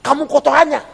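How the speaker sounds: high-pitched mock indignation; indignant retort. Offended Kijang driver answering the truck driver, mock indignant. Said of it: "Dia nggak terima".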